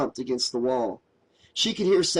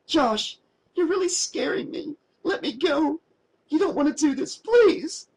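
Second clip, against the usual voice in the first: panicked; 13 semitones higher than usual. A narrator's reading. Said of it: "Mary panicked".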